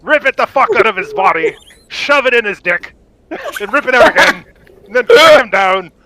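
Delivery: gleeful gory boast. Real, not acted. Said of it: "You're so descriptive".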